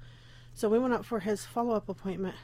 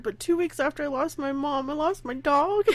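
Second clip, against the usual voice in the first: voice breaking; 5 semitones higher than usual. Real, not acted. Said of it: "I'm gonna get emotional".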